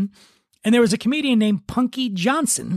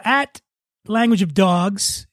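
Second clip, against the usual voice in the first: slow and careful; much slower than usual. Real, not acted. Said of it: "spelling out social handle".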